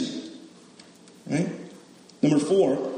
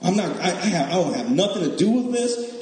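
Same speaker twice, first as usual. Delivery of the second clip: mock sulky refusal. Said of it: "this one angry, he was like".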